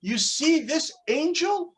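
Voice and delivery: God proudly unveiling what you could be; excited God. Acted. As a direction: beam with pride, showing off a masterpiece. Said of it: "And God, all excited, says".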